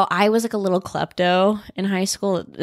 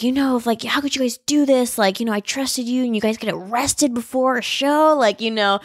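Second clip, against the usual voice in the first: mildly indignant retold scolding; mock telling-off, higher-pitched; mad teacher; 4 semitones higher than usual. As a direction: imitate a let-down teacher's reproach, raised pitch. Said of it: "my teacher was so mad at us".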